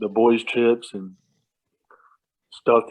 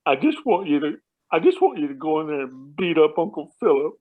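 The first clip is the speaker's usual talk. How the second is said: put-on slightly raised, pleading kid voice; imitated tearful child; 3 semitones higher than usual. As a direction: lightly mimic a child close to tears. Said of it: "he was just about to start crying".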